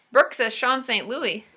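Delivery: normal talking voice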